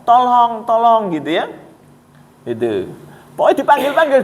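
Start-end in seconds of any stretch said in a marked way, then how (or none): 0.0-1.1 calling for help, a little raised; a mild mock yell of tolong; retold cry for help. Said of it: "itu mendengar teriakan".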